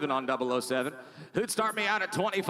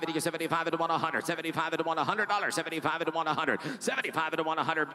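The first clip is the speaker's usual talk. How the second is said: fast rhythmic auction chant; auctioneer; faster than usual. Real, not acted. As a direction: rattle off the bids like an auctioneer. Auction bid calling.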